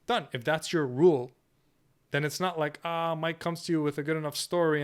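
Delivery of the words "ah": ordinary talk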